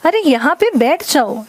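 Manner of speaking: अरे यहाँ पे बैठ जाओ said insistently; firm insistent request; emphatic. Shown as a demonstration. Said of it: "जोर देके कहूँगी".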